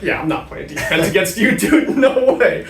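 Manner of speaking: laughing disbelief, slowing right down. Retold or imitated. Imagined words to a tall player.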